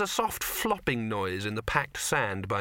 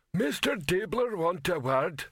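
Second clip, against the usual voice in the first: menacing troll; 7 semitones higher, slower than usual. Acted.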